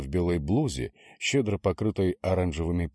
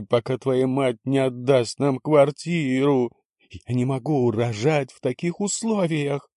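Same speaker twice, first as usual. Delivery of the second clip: high, loud sobbing rant; hysterical young wife; 8 semitones higher, 6 dB louder than usual. A narrator's reading. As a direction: wail it like a manipulative drama queen. Vika wails hysterically. (истеричная рыдающая невестка)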